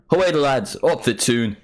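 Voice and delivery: toned-down Geordie rallying call, starting high; Geordie cheer, own voice. Shown as a demonstration. Streamer retrying the Newcastle cheer, milder Geordie attempt. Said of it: "just do my normal voice".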